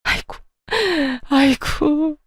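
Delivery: staged tearful wail; fake crying wail. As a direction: wail for show. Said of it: "눈물 연기를 기가 막히게 하는".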